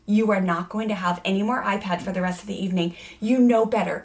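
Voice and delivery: put-on firm, loud warning to a child; scolding her son at the park, a stern lecture; stern scolding mom. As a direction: lay down the law to your kid. Mom scolds child in role play.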